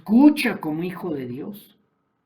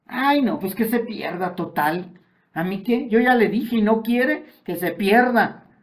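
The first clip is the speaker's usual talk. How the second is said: higher, dismissive shrug of a voice; indifferent believer; 4 semitones higher, 4 dB louder than usual. Acted. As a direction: play someone who couldn't care less.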